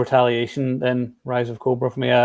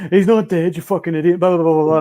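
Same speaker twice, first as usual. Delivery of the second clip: higher-pitched mocking imitation of trolls; mock internet troll; 4 semitones higher, 3 dB louder than usual. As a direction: lightly parody an online troll's rant. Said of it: "people were, like, trolling the page".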